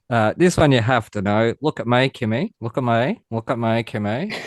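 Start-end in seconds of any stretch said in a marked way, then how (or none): 1.6-4.3 Australian catchphrase. Shown as a demonstration. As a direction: say it as thick Aussie slang. Quizzing Australian slang phrase for others.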